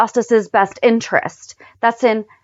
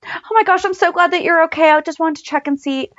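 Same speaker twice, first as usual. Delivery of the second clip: relieved gush; 8 semitones higher than usual. Retold or imitated. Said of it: "they hugged like the BFFs".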